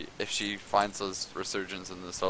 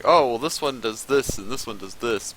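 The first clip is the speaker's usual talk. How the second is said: quoted chatter, higher and louder at the start; mock commentary; 4 semitones higher, 7 dB louder than usual. Caster mimicking talk about each change, mock commentary. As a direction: rattle off imagined commentary in a raised voice. Imagined chatter during the delay.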